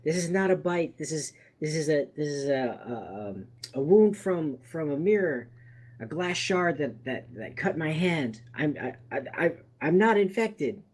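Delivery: mild mock begging for his life; pleading. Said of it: "He starts pleading with you".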